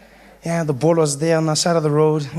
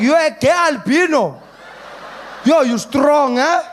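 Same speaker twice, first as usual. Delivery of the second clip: put-on amazed drunk uncle; 7 semitones higher than usual. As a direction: exclaim it as the flabbergasted uncle.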